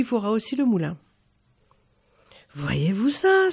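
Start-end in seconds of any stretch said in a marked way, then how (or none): 2.5-3.5 exclamation étonnée. Acted. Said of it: "s'écria la petite vieille".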